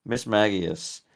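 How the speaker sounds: MAGIUS said "MAG-ee-us" with a hard g; hard-g pronunciation. Real, not acted. Streamer naming the next Pokemon, Magius with hard g. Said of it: "Do you pronounce it Miss Magius or Miss Magius".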